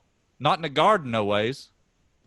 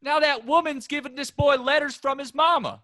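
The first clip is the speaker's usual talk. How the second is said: high-pitched, raised voice; heated argument; 11 semitones higher than usual. Acted. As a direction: argue back hard. Brothers argue heatedly.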